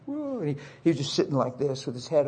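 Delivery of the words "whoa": high, soft drawn-out whoa; stunned whoa. Retold or imitated. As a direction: let out a stunned, hushed whoa. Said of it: "And he's like".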